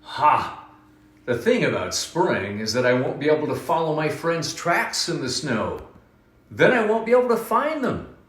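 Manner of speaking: a grumbling rabbit, lightly voiced; grumpy rabbit voice. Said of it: "said Rabbit".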